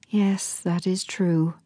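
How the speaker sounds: breathy, whispered sigh. A narrator's reading. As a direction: let the words go on a sigh. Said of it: "sighed Amelia".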